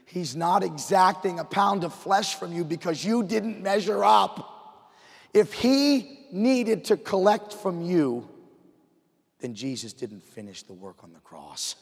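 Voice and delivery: really fired up in the pulpit. Real, not acted. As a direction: drive it home with rising fire. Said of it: "I'm getting all fired up here now".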